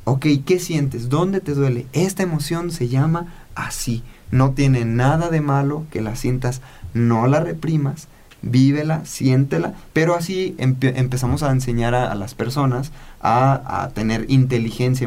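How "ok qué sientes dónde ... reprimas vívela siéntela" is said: calmado y amoroso. Retold or imitated. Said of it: "lo mismo que dice Ricardo Ponce".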